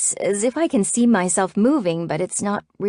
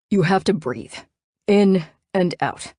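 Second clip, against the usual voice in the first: annoyed coaching. A narrator's reading. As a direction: coach her like she's a nuisance. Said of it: "with a tone that tells me he thinks I'm weak and annoying".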